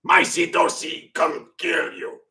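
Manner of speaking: hammed-up angry Asian accent shout, slow; put-on Asian accent, mock yelling. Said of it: "He's like".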